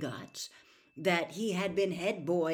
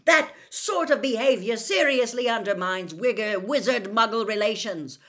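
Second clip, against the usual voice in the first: loud, outraged lecture; angry, high and loud; shouted tirade; 6 semitones higher, 10 dB louder than usual. A narrator's reading. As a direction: rant at your sons at full volume. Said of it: "Mister Weasley shouted".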